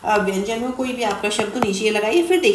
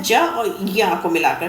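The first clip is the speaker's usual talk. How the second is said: slow dictation; 5 semitones lower, slower than usual. Shown as a demonstration. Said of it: "ज्ञा किसको मिलकर बनता है?".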